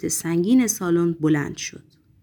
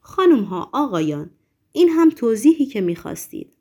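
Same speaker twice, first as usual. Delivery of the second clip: mock announcer shout to the hall, louder; 2 semitones higher, 4 dB louder than usual. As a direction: call it out to the audience like a showman. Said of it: "فریاد زد".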